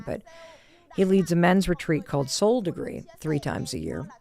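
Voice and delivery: usual speaking voice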